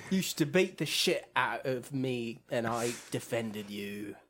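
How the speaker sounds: low, mock British big brother; Deckard Shaw. Shaw talking to his injured brother, mock British accent. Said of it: "Or wait, he's British".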